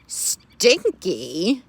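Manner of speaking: indignant rising stinky; offended pig. Acted. Pig objecting to being called stinky, indignant. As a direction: pig taking offence at the word.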